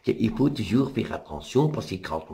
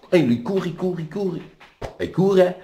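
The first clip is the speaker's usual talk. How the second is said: higher and louder, racing; building excitement; 9 semitones higher, 4 dB louder than usual. A narrator's reading. Narrator tells the father racing to save the girl, excited and rising. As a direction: drive the chase forward.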